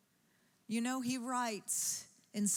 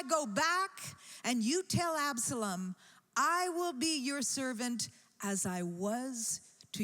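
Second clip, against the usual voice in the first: higher, firm commanding orders; a king sending his friend back on a mission; 3 semitones higher than usual. Acted.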